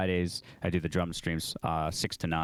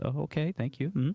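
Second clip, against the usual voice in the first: high, polite mock-British voice; British accent; 9 semitones higher than usual. Queen thanking a guitarist, in imitated British accent. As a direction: put on a little British lady's high voice. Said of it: "in her little British accent".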